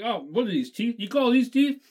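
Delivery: put-on Brooklyn accent rising high and loud. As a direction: scoff in a Brooklyn accent, building to an indignant question. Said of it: "talking with a Brooklyn accent".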